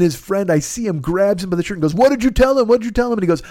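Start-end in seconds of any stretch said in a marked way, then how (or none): 1.9-3.1 higher, retold accusing demand; angry demand. Friend grabbing him by the shirt, angry demand.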